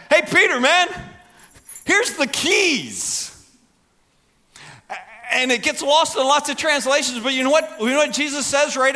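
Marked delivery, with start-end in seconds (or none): 0.1-3.3 enthusiastic hand-over. Acted. Jesus entrusting Peter warmly.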